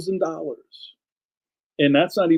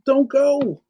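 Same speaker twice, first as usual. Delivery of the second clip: high, curt dismissal; just shut it down; blunt; 11 semitones higher, 3 dB louder than usual. Real, not acted. Telling griping artists to stay home, curt. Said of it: "blunt retort".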